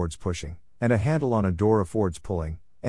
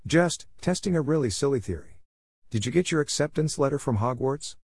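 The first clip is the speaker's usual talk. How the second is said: put-on old woman voice; 6 semitones higher than usual. Mrs Figg, old neighbour.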